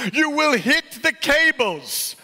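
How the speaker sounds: high, drawn-out urgent call; shouted warning. A narrator's reading. Market woman shouting to the truck driver, urgent warning. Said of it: "the market woman shouted".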